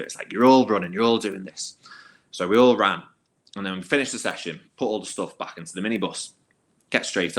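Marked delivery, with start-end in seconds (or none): 0.3-1.8 louder, clipped mock bark; angry order. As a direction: punish the whole squad. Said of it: "Les hasn't taken kindly to it".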